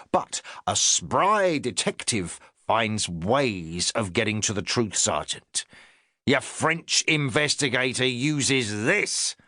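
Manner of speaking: a touch of a self-important inspector; the inspector talking down to his sergeant, lightly pompous. Acted.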